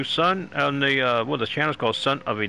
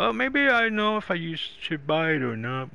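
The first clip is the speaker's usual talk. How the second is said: higher-pitched voice of someone wondering; undecided viewer; 4 semitones higher than usual. Acted. Host voices a viewer weighing a purchase, lightly acted and undecided. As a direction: lightly voice a hesitant buyer's thought. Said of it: "and you're thinking about".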